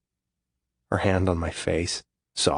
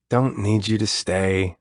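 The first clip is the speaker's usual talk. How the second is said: grouse; 2 semitones higher, slower than usual. Acted. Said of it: "I grouse".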